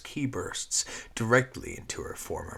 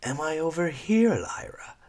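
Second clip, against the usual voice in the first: Squeak's taunting lilt roughened to a rasp; harsh gravelled whisper; 10 semitones higher, 6 dB louder than usual. Acted. Squeak taunting Lyra from the shadows, harsh whisper. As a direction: tease her from the dark, high and hushed. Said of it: "whispered a harsh, graveled version of a lilting voice".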